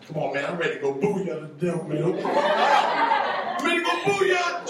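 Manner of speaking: itching to cheer; eager Jesus. Retold or imitated. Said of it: "Jesus over going".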